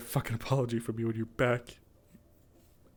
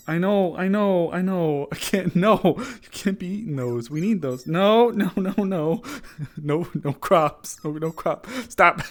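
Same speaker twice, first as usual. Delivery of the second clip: high loud pleading no; loud laughing scold; 7 semitones higher, 6 dB louder, slower than usual. Real, not acted. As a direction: hold a wriggling pet and scold. Wrestling the pet off crops.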